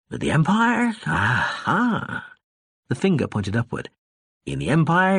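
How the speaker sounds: put-on slurred, rambling drunk; lightly voiced tipsy ambassador; drunk man voice. Drunk Tsar lectures Gurgey.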